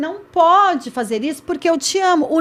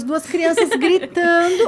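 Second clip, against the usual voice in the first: laughing; 5 semitones higher, slower than usual. Real, not acted. Laughs mid-phrase at the image.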